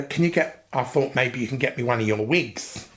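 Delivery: a hint of his mum; lightly voiced mother; imitating his mum. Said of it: "She spoke like that".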